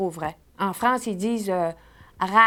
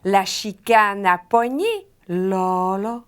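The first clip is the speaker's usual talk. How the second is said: slow drill; slower than usual. Shown as a demonstration. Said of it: "Tout le monde ensemble".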